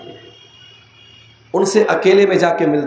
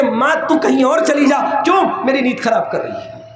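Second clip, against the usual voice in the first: irritated son; 4 semitones higher than usual. Retold or imitated. A son woken by his mother's cough, lightly snapping at her. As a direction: play a grown son woken at night, fed up and harsh. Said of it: "آپ جا کر کے بول دیں گے".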